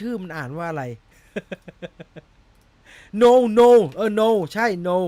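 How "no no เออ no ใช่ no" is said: laughing. Real, not acted. Laughing at the TTS pronunciation.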